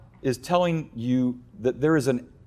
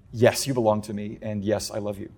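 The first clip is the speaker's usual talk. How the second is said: reassuring; 4 semitones lower, 5 dB quieter than usual. Acted. God's reassuring answer to doubters.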